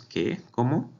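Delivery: two short questions, voice lifting sharply; surprised questions. Shown as a demonstration. Teacher showing how the voice rises, surprised questions. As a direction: ask it startled, pitch swooping up. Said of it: "¿Te fijas cómo elevé la voz?".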